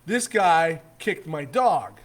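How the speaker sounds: slow, emphatic mock yell; retold yelling. Dog owner accusing the man who kicked it, mock yelling. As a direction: imitate an irate accuser, each word drawn out. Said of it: "he starts yelling at me".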